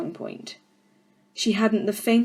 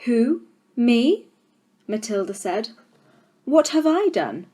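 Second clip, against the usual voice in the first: put-on surprised girl; 4 semitones higher, 4 dB louder than usual. Accused girl protests.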